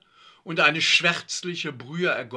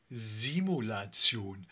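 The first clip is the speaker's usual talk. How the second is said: Simulation said slowly and lower; correcting; 4 semitones lower, slower than usual. A narrator's reading. Dominik corrects a classmate's word, slow careful Simulation. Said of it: "verbesserte Dominik".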